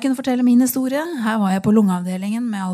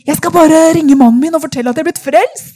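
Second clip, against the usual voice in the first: retold eager announcement, higher and louder; excited; 5 semitones higher, 9 dB louder than usual. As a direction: blurt it out, too happy to wait. Woman eager to phone husband.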